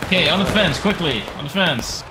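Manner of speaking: loud, urgent command; shouting orders over battle. Acted. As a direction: bark the order across the field. Ordering men to the fence.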